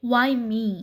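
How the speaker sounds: whispered lament; anguished whisper. A narrator's reading. Anju whispering to herself in grief. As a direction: breathe the question out in despair. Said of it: "ತಾಯಿಯನ್ನು ಆ ಸ್ಥಿತಿಯಲ್ಲಿ ನೋಡಿದ ದುಃಖ".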